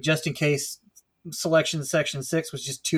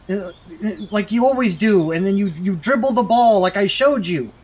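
ordinary talk

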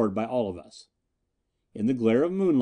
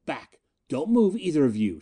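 whisper yelling; 3 semitones higher than usual. Acted. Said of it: "she hissed at us".

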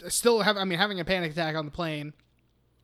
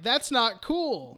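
slow, higher-pitched mock objection; disapproving protest; 4 semitones higher, much slower than usual. Group objecting to the sacrifice, slow disapproving protest. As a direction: stretch it out in pointed disapproval.

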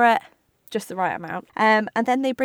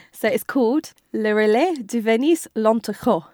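French accent for the restaurant name. Shown as a demonstration. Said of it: "I got to get my best French accent on to say this".

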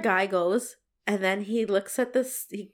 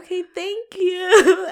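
slow, laughing, teary thanks; laughing relief; 9 semitones higher, 7 dB louder, slower than usual. Retold or imitated. Thanking the mechanic after the flat tire news, teary laugh. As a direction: thank him through a laugh.

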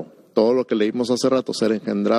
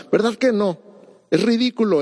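much higher, incredulous exclamation; 8 semitones higher than usual. Real, not acted. Preacher to congregation, high incredulous exclamation. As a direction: laugh off the idea, pitch leaping up.

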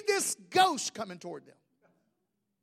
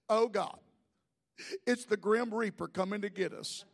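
low, hushed voice of acted dread; 4 semitones lower, 7 dB quieter than usual. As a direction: play doomed men, quiet and low. Acting out the terrified disciples.

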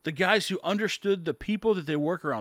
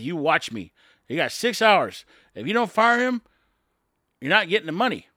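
louder, forceful imitation of a threat; retold ultimatum; 5 dB louder than usual. Biden warns Zelensky of the deadline, louder and forceful. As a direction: lean in hard, mock bully.

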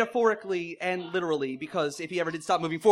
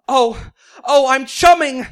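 higher, much louder, slow mock moan; hammed-up moan; 6 semitones higher, 11 dB louder, slower than usual. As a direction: ham up the climax cry. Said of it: "Ariel began to moan".

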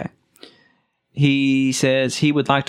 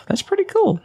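excited. Real, not acted. High excited remark.

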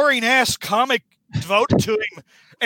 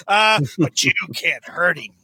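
whispered aside. Retold or imitated. Norman's sly villain aside.

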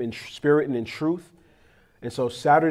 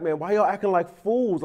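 raised-pitch retold exasperation; exasperated; 4 semitones higher than usual. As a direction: act out a parent fed up with the kids. Acted exasperation with his children.

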